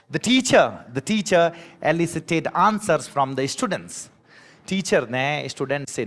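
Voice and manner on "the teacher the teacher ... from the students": slow example sentence. Shown as a demonstration. Teacher reading the example sentence slowly to the class. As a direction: read it out slowly, word by word. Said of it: "क्या लिखा हुआ है".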